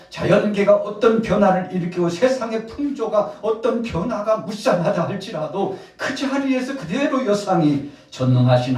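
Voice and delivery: loud, high-pitched sermon delivery; full-force preaching. Real, not acted. Preacher telling of the disciples' efforts, loud and impassioned. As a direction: drive it out to the whole congregation.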